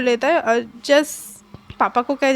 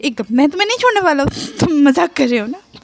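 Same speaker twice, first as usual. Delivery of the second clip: panicked disbelief; 3 semitones higher than usual. Acted. Shahjahan panicked, disbelieving plea.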